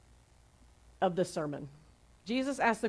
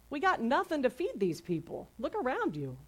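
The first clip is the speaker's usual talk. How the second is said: higher-pitched mock whine; whining disciples; 6 semitones higher than usual. Disciples tell Jesus there's no food, mock whining. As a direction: imitate a helpless, complaining whine. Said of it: "the disciples start whining".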